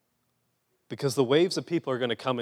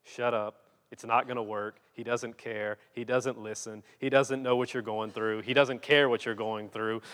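dismissive crowd; 3 semitones lower than usual. Retold or imitated. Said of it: "When they were just telling him".

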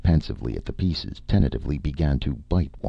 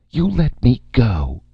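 high, loud indignant cry; 10 semitones higher, 6 dB louder than usual. A narrator's reading. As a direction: cry out in a high female character voice. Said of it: "D D cried".

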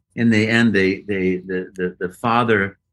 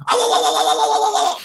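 Mario voice; faster than usual. Retold or imitated. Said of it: "Then it's like".

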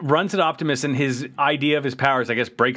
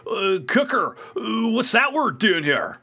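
much higher, drawn-out befuddled voice; mock puzzled Ironhide; 8 semitones higher than usual. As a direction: play a baffled dimwit, pitched up. Acts out Ironhide puzzled by word.

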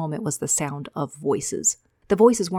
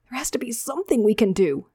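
higher, tearful plea; pleading; 5 semitones higher than usual. Acted. Javen begging Ravier, higher and tearful. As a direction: beg with tears welling up. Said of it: "Javen pleaded".

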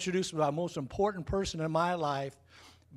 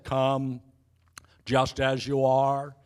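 Billy Graham impersonation; 3 semitones lower, much slower than usual. Retold or imitated. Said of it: "That's an excellent Billy Graham impersonation".

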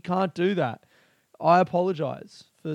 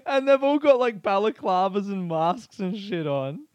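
laughing; 5 semitones higher, 4 dB louder than usual. Real, not acted.

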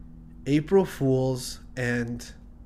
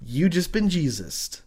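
taunting prank; 3 dB louder, much slower than usual. Retold or imitated. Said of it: "and says".

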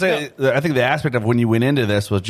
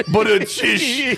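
words squeezed out through laughter; laughing hard while talking; 10 semitones higher, much slower than usual. Real, not acted.

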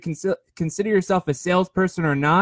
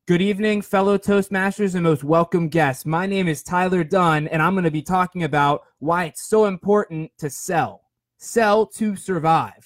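formal speech opening. Shown as a demonstration. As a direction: demonstrate a formal introduction to an audience, unhurried. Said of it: "you're supposed to do".

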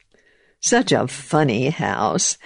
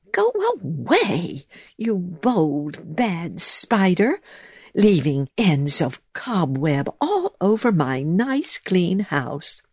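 scolding mouse voice; 5 semitones higher than usual. Acted.

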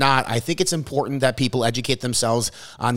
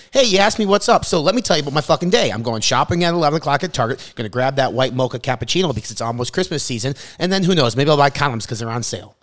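oversharing commenter; 2 semitones higher than usual. Retold or imitated. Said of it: "people are gonna go down to the comment section and say".

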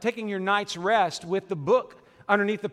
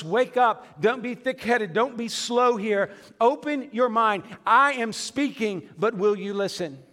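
firm, raised preacher's voice, mildly forceful; emphatic urging; 2 semitones higher than usual. Retold or imitated. Jesus speaking as a good father to us, emphatic urging. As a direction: urge them to wake up and pay attention. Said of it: "He's speaking loudly".

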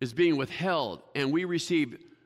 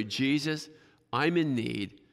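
pleading prayer; 3 semitones lower, slower than usual. Retold or imitated. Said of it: "Let me paraphrase that verse".

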